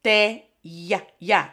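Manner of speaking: slow, drawn-out "¿Cómo te ya-, ya" for repeating; slow teacher demo. Shown as a demonstration. Teacher models phrase for students to repeat slowly. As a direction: stretch "ya" so the class hears the Y sound. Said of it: "Chicos, repitan".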